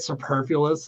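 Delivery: superfluous in a Philly accent. Shown as a demonstration. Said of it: "my Philly accent repeating it".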